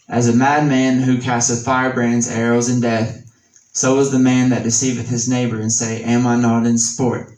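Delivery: scripture reading. Acted. Reads Proverbs in scripture voice.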